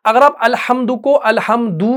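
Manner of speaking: अलहम्दू with the final "u" stretched long; wrong lengthening. Shown as a demonstration. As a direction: drag out the last vowel of अलहम्दू. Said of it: "खींचेंगे इसको, लंबा खींचेंगे".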